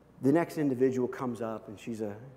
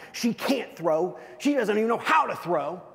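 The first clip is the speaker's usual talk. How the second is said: mild scornful complaint; 6 semitones higher than usual. Retold or imitated. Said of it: "rolling my eyes".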